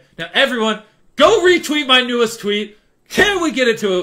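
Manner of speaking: all-out hyped, high, very loud yell. Video creator addressing everyone watching, yelling. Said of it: "I don't know why I'm yelling".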